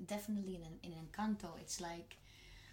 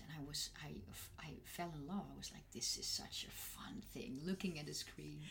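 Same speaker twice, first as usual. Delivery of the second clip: whispering; 3 semitones lower, 6 dB quieter than usual. Retold or imitated. Recalls falling in love with dubbing.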